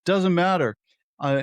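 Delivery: ordinary talk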